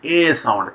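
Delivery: vowel ए drawn out clearly; ए sound demo. Shown as a demonstration. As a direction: say ए long and open, like a teacher. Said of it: "ये फिर ए sound है".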